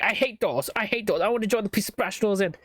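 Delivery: playful cop caricature; mock door-loving cop. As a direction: ham up a cop who loves doors. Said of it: "It's like".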